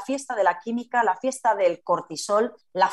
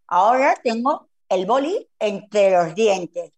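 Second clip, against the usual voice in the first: talking with a pen between the teeth; 3 dB louder, slower than usual. Shown as a demonstration. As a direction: speak around a pen held in the teeth. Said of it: "yo lo voy a hacer para que me escuchéis hacerlo".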